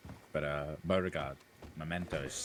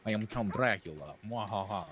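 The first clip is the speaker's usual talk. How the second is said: Count Dracula; 3 semitones higher than usual. Pretend. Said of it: "That's more or less what I'm doing".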